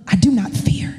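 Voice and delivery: a breathy whispered vow, barely voiced. Pastor's wife whispering her trust to the church, whispered. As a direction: whisper it to the congregation as a private promise.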